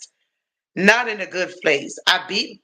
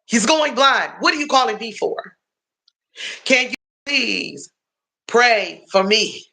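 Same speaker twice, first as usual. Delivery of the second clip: higher exasperated disbelief; asking why he is calling her again; incredulous; 4 semitones higher than usual. Retold or imitated. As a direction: throw up your hands in disbelief. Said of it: "I'm like".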